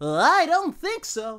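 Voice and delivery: very high-pitched cartoon voice. Showing the others an impression of Krillin: Krillin impression. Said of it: "my Krillin is, uh, is, is, is epic".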